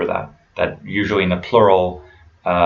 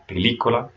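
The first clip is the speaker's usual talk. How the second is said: "película" stressed on lí; Spanish "película" with the accented í brought out; 3 semitones higher, 3 dB quieter, faster than usual. Shown as a demonstration. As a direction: hit the second syllable of "película". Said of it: "there's an accent on the I".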